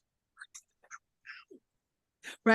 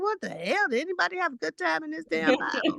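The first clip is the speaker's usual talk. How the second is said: exasperated disbelief; 6 semitones higher than usual. Retold or imitated. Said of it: "I'm like".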